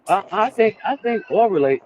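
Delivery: choppy breaking-up connection; breaking up space radio. Real, not acted. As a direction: voice cutting out over bad line. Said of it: "You breaking up".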